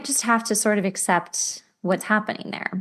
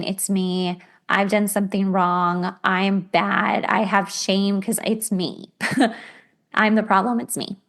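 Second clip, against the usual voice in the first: mock self-blame. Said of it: "You're anxiously attached. You're thinking".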